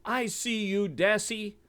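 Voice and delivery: high, piercing bird screech; screeching eagle. A narrator's reading. Eagle screeching at the Dassie as he swoops. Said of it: "the eagle screeched".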